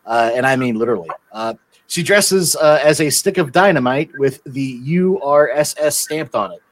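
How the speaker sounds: cheesy pitchman ad read; infomercial. Acted. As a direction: hype the calendar like a TV ad. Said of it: "we have a sponsor announcement".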